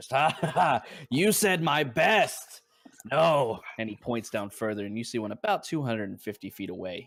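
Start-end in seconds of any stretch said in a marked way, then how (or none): 0.1-3.6 very slow, loud, drawn-out ha-ha laughing delivery. Voicing Anthar laughing in the background at the archer: Anthar laughing. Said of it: "you hear Anthar, uh, laughing in the background".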